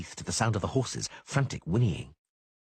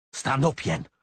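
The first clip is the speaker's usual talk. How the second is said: urgent shout; 4 semitones higher, slower than usual. A narrator's reading. Geralt calls to fallen Yennefer.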